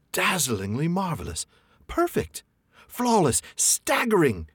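high, over-the-top gasps of praise; gushing exclaim. A narrator's reading. Hobbit faking awe at the dragon, high. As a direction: gush with fake awe. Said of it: "exclaimed Bilbo aloud".

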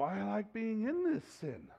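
slow, soft, savouring the sin; lightly voiced sinner relishing his choice; mock indulgence. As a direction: drawl it out like you love the sin. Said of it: "And yet we're going".

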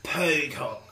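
put-on English accent.

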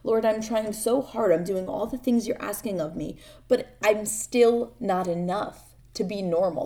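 despairing inner prayer. Retold or imitated. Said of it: "This is what I thought in my head".

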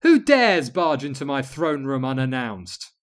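haughty demand. Acted. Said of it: "she demanded".

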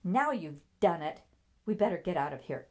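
loud, alarmed scolding; crying out. A narrator's reading. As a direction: cry out in dismay, then hurry. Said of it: "Isabel cried out".

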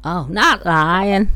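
slow Aussie drawl; Australian accent. Pretend. Boyfriend repeating her definition, slow mock Australian accent. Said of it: "You're talking uh, Australian".

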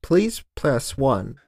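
slow automated menu voice; phone menu voice. Pretend. Joining the pretend phone menu.

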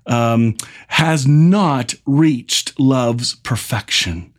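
scripture reading. Acted. Reads scripture aloud slowly.

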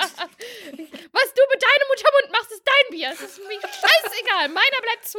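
prissy cartoon whine; slow falsetto mockery; silly high voice. Squeaky mock continues.

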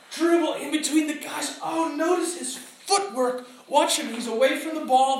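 high, stretched-out play-by-play of a star; awed replay commentary. Acted. Acts out admiring slow-motion Messi replay.

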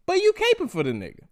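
mock journalist voice. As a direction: sneer out his fake neutrality. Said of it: "as if he's like".

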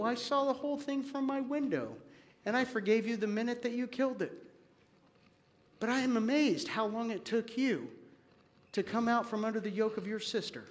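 grandma softly telling Johnny she forgave him; gentle grandma. Acted. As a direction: reassure him quietly.

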